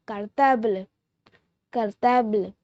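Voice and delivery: cartable said kar-TAHBL; French cartable. Shown as a demonstration. Teacher teaching viewers the French word cartable, clear demo. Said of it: "We say school bag in French".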